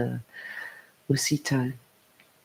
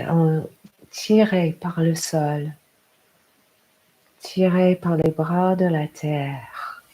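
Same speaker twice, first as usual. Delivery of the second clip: guided meditation. Acted. Yoga teacher inviting a parent to hear their heart, guided meditation.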